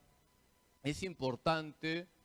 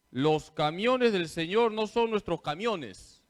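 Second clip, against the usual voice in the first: camiones said for caminos, a bit louder; mock blooper reading; 3 semitones higher, 6 dB louder than usual. Priest imitating a lector's misreading camiones. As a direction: recite the slip camiones with lector confidence. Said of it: "Esto también es verídico".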